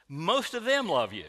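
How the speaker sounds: Most said with weight, them falling after; stress on most. Retold or imitated. Pastor retelling the chairman's call, Most stressed. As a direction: lean on the word Most. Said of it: "Emphasis on the word most".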